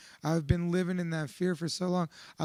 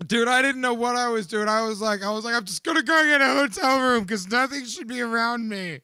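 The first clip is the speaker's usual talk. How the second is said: choked-up sincere; 4 semitones higher, 7 dB louder than usual. Real, not acted. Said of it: "recalling breakdown, crying".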